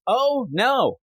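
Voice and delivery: lightly hammed-up mock dismay; a hint of a stilted bad actor; hammy bad acting. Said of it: "your acting stinks".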